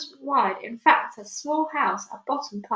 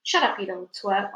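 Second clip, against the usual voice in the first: snap. Acted. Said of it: "Aunt Spiker snapped".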